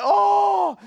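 high, loud, drawn-out groan of discomfort; mock awkward "oh". Customers watch a sobbing stranger, mock awkward groan. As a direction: imitate men squirming. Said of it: "they were feeling very awkward".

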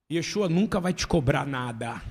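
loud, low declaration; ênfase forte. Real, not acted. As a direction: declare it loudly. Preaching emphasis. (declaração forte e grave)

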